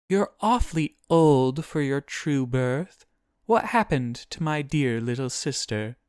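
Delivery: high-pitched demon, curious about a little sister. A narrator's reading. Voices demon questioning Guinevere.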